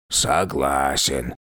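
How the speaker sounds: a weary, sighed agreement; sighing. A narrator's reading. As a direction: agree with a heavy sigh. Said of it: "вздохнул царь".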